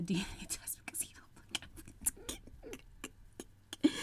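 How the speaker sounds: words dissolving into helpless laughter; breaking up laughing. Real, not acted. Reading a viewer's DNA test comment, breaking up laughing. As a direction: lose the sentence to wheezy laughter. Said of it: "You know why I'm laughing?".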